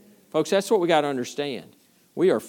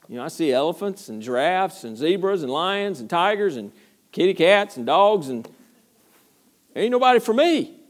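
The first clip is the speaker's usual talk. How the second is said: Adam complaining; 3 semitones higher than usual. Retold or imitated. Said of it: "he's looking around and going".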